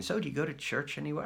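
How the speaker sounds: high, fast, prim visitor voice; high polite Jehovah's Witness. Retold or imitated. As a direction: put on the sweet door-knocker.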